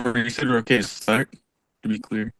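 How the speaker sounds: scratchy robotic voice; like a bad phone connection. Real, not acted. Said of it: "but you sound like a robot".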